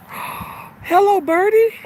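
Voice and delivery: put-on very high baby-talk coo; high sweet birdie greeting. Cooing to a bird.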